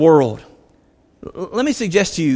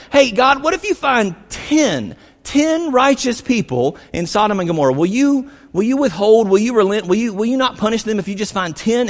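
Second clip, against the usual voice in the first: Abraham pleading with God, raised and earnest; 4 semitones higher than usual. Retold or imitated. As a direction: beg God for mercy, reaching up. Abraham pleading for ten righteous.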